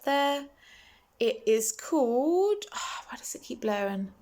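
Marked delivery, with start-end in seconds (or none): 1.2-2.6 slow unvoiced whisper; slow hushed half-word; whispered aside. Real, not acted. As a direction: whisper it while fiddling with the camera. Aside while adjusting close-up.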